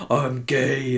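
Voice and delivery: lightly imitated Groot; a hint of Groot, half-hearted. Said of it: "in, like, the Groot voice".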